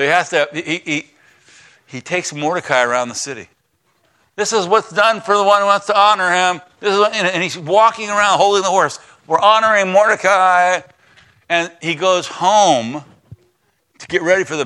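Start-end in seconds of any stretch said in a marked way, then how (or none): 4.4-10.8 loud, higher herald's cry; grudging public announcement, loud; mock proclamation. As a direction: call it out to the street like a town crier. Haman forced to proclaim Mordecai.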